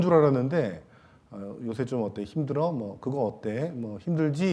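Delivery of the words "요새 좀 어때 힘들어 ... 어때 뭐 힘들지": softer caring questions; gentle check-in. Shown as a demonstration. Pastor modelling a caring question to a churchgoer, soft and gentle. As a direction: ask softly how they are holding up. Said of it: "이렇게 얘기".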